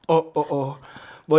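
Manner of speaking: ordinary talk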